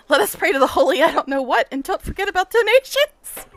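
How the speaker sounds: high, loud mock sermon plea; mock preacher. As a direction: ham up a preacher asking for donations. Mock preacher after religion joke.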